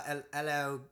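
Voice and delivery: hesitant, badly faked Australian accent; joking attempt at an Australian accent. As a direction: have a go at an Australian greeting. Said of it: "what's that Australian".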